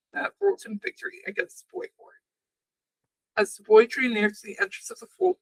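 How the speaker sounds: measured storybook reading; story narration. A narrator's reading. Narrator reading an old legend to podcast listeners, story narration. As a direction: read the legend aloud, steadily.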